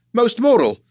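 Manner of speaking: high, loud put-on Scouse accent; a fan gushing in a Liverpool accent; admiring fan in a Liverpool accent; attempted Scouse accent. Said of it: "I can't really do a Scouse accent".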